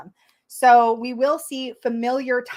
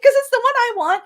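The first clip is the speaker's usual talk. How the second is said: emphatic declaration; 12 semitones higher, 7 dB louder than usual. Real, not acted. Emphatic claim of her own wish.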